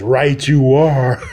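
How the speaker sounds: lightly voiced vampire queen, slow at the end; understated menacing queen. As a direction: savour the threat like a predator. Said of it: "smiles and laughs and says".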